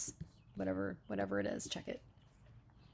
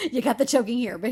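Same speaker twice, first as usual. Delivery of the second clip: laughing; 4 semitones higher, 10 dB louder, faster than usual. Real, not acted. Laughing reaction to the line.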